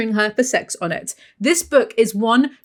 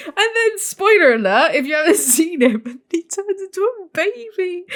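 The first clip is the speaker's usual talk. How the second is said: teary voice; 9 semitones higher than usual. Real, not acted. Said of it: "You can hear it in my voice".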